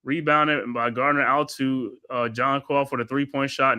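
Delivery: steady courtside commentator calling each pass; play-by-play call. Acted. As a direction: narrate the possession like a broadcaster. Calls the game play-by-play.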